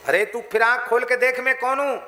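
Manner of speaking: bully the little goat; wolf snarling at the goat, loud and high; wolf's threat. Acted.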